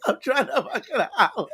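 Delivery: high, laughing imitation of a complaint; mock protest. Imitating Joe complaining to Al while chasing a girl, laughing protest. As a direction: whine it in fun while cracking up. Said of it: "this nigga's like".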